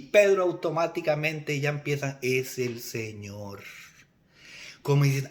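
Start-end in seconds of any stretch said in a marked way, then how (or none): 2.2-3.6 very slow, drawn-out, lower-pitched words; dawning realization. Acted. Peter realizing who stands on shore, slow and drawn out. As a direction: stretch each word as it sinks in.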